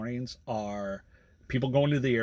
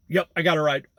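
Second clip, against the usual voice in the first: relieved passenger; 5 semitones higher, 9 dB louder, faster than usual. Retold or imitated.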